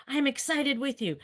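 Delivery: high-pitched excitement. Shown as a demonstration. Teacher showing students' helpers what not to do, high-pitched. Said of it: "that high pitch".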